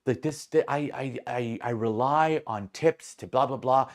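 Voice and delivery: mock-sweet appeal to departing customers; nicer-sounding server. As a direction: plead politely, as a put-on server. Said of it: "making her sound, like, a lot nicer".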